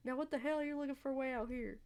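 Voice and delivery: attempted Southern country voice; southern accent. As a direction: challenge them in a Southern accent. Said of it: "a southern accent".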